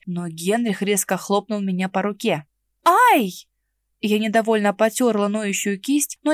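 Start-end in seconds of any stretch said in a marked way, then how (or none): 2.8-3.3 a high, loud yelp of pain; ouch. Acted. Mara yelps when Henrich slaps her hand. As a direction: yelp as your hand is slapped.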